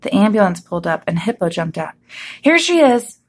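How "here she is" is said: loud high-pitched shout. A narrator's reading. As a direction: shout out a discovery. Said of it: "he shouted".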